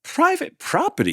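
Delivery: very high, loud shout; grumpy yell. Acted. Cactus yelling at the tortoise to go. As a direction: bark it at the intruder. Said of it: "yelled Hank".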